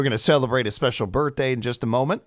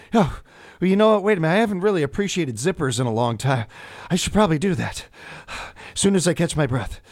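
sudden realization; 5 semitones higher than usual. Retold or imitated. Imagined sudden realization mid-rush.

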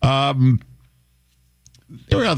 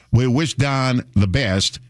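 put-on Southern accent; 4 semitones higher, slower than usual. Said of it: "in a real Southern accent".

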